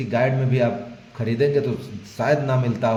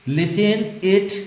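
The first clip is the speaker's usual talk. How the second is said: drawn out slowly, pitched high; slow model phrase; slow demo read; 6 semitones higher, much slower than usual. Shown as a demonstration. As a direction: stretch the phrase out slowly for students. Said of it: "अगर ऐसे नहीं बोल सकते क्या?".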